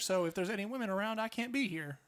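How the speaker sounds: put-on deep Tennessee accent, lightly done; Mike Pence. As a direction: play a politician with a Southern accent. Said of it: "like, a deep place in Tennessee".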